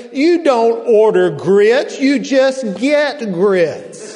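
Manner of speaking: a sassy Southern waitress setting him straight, loud and emphatic. Retold or imitated. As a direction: plant your hands on your hips and lay it down loud. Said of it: "said emphatically".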